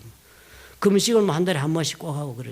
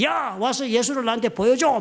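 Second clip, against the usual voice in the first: mock angry yell; 4 semitones higher than usual. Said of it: "얘가 막 화를 내면서 나한테 말해".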